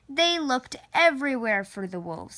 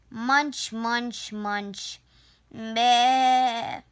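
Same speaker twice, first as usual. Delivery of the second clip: chewing sheep; much slower than usual. Acted. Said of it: "answered the sheep".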